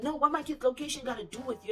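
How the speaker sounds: defensive retort. Retold or imitated. Boyfriend questioned about his kids, mildly mocked defensiveness. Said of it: "Why you being defensive though?".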